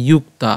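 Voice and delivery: ইয়ুক্তা opening on a "yu" glide, not j; Y-sound demo. Shown as a demonstration. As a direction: say ইয়ুক্তা with initial "iyu". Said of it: "ইয়র মতো হবে". (ইয়ুক্তা, শুরুতে ইয়-র মতো উচ্চারণ)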